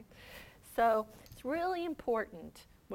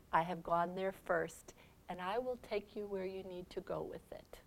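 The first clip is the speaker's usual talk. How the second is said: reassuring Jesus; 6 dB quieter than usual. Acted. Jesus voiced reassuring the faithful.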